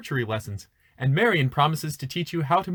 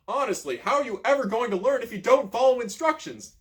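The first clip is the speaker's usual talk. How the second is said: exasperated scolding; 9 semitones higher, 5 dB louder than usual. Acted. Exasperated coach scolding camper.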